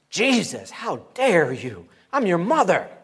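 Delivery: loud, hammed-up outrage; an indignant mother telling off her son, overacted; mock angry. Preacher acting Mary rebuking Jesus, mock angry. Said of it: "We don't see her getting angry".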